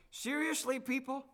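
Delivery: disbelieving scoff at the public; exasperated mock. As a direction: roll your eyes and scoff at everyone. Mocking the blame on pigs.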